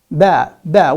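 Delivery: "ba, ba" said with a voiced b, loud and deliberate; clear ba sound. Shown as a demonstration. Teacher modelling the Arabic letter, loud clear ba. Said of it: "and the sound".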